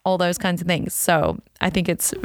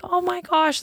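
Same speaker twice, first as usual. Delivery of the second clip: a very high, thrilled burst of pride; proud gasp; 12 semitones higher than usual. Retold or imitated. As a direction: squeal it like the proudest mom. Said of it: "So I was like".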